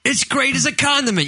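infomercial. Pretend. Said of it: "It's gonna be like an infomercial".

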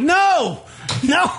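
very high-pitched retold "no"; emphatic protest. Denying his date's accusation, high yelped protest. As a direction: yelp a denial, acting it out.

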